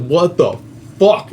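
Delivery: rising to a retold shout on fuck; imitating her panicked yell, half-hearted; mild mock scream. Mother hearing the voices, mild mock scream. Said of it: "She screamed".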